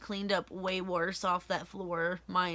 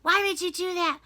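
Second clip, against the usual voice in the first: shocked boss; 7 semitones higher than usual. Retold or imitated. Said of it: "Brad was like".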